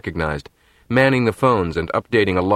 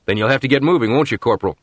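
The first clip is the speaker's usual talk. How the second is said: shouting; 3 semitones higher, faster than usual. Acted. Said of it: "shouted Nat".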